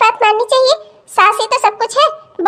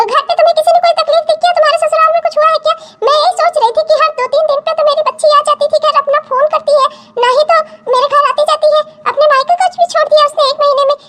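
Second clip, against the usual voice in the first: higher, anxious motherly questioning; worried mother; 6 semitones higher, faster than usual. Acted. Mother anxiously questioning her crying daughter. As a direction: fuss over your crying daughter.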